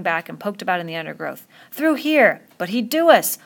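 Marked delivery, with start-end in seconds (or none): 1.7-2.4 high, loud call to the others; shouted order. Acted. Boys shouting in the hunt. 2.6-3.4 high, loud objection; alarmed protest. Acted. Alarmed objection amid the hunt.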